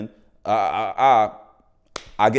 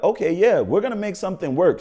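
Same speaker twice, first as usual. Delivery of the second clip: high, eager reassurance; upbeat promise; 8 semitones higher, 4 dB louder than usual. Retold or imitated. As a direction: promise it brightly. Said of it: "she was like".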